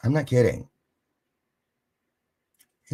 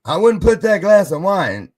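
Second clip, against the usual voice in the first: warning; 10 semitones higher, 9 dB louder than usual. Retold or imitated. Retold warning before knocking wine.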